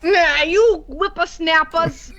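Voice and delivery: put-on slow creaky old-timer grumble; old person voice. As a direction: drag it out like a cranky grandpa. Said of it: "I don't do a very good old person".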